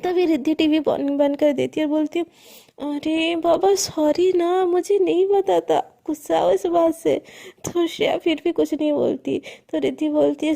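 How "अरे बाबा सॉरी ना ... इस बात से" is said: coaxing apology. Acted. Coaxing an upset friend.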